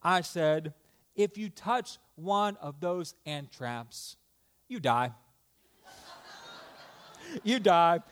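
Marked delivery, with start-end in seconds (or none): 1.1-5.1 mock-compassionate fatherly warning; tender tone for a blunt warning; gentle. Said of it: "in my most gentle voice possible". 7.4-8.0 through a laugh; amused, laughing delivery. Real, not acted. Laughs repeating his own punchline.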